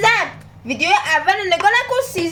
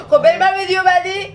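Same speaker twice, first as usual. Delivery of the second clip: laughing while talking; 4 dB louder than usual. Real, not acted. Laughing after joke.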